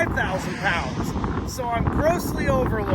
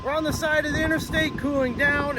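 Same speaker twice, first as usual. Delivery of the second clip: raised, high voice over wind noise; shouting over wind; 7 semitones higher than usual. Real, not acted. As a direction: project to be heard over the wind. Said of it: "I'll try and speak loudly".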